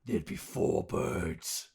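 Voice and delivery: slow breathless whisper; awed whisper. Acted. Character whispering in awe at the nested birds. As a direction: let it out slowly, stunned. Awed realization about turducken.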